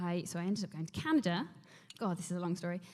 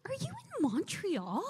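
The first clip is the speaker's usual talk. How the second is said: higher, slow lightly voiced manager; manager asking; 10 semitones higher, slower than usual. Manager on the phone checking where she is, slow and high. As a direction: ask it slow and knowing. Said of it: "She was like".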